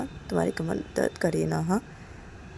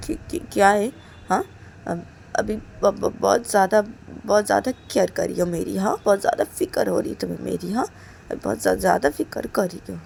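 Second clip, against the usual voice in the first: louder, mocking sarcasm; sarcastic jab; 6 dB louder than usual. Reshma mocking Kajal's sudden concern, sarcastic. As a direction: sneer at her sudden concern.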